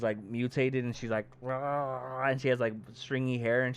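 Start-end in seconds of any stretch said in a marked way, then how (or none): 1.4-2.3 imitated monster roar.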